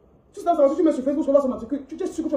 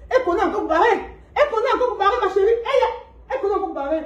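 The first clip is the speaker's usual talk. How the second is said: mocking through laughter, pitched up; scornful giggling taunt; laughing mockery; 6 semitones higher than usual. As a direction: laugh at her while saying it.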